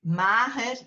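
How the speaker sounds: Mahir, klemtoon op de A; Mahir: A stressed, H breathed. Shown as a demonstration. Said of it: "the A is stressed".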